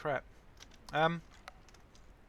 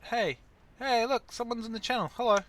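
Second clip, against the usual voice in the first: excited greeting; 9 semitones higher, 10 dB louder than usual. Real, not acted. Greeting a chat viewer.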